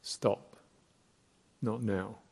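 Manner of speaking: brief, firm self-command; short, clear, unwavering. Shown as a demonstration. Meditation teacher models halting stray thoughts, short and unwavering. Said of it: "short, clear, unwavering".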